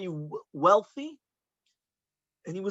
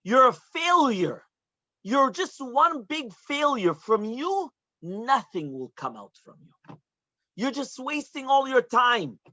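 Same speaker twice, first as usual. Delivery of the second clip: mild upset teacher; 2 semitones higher than usual. Retold or imitated. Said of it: "he was all upset and he told me".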